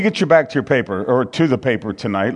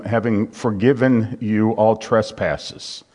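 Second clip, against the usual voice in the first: measured, solemn Bible reading; scripture reading. Acted. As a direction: read the verses with weight, steadily. Reads Colossians aloud.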